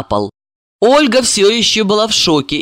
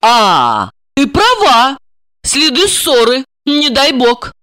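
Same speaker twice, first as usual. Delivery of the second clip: higher, startled concession; sudden realisation; 7 semitones higher, 3 dB louder, slower than usual. A narrator's reading. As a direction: let it dawn, then voice alarm. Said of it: "Тут её осенило".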